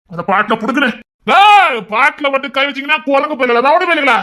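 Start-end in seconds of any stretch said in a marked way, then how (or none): 1.3-4.1 angry threat. Acted. Threatening quarrel over a song.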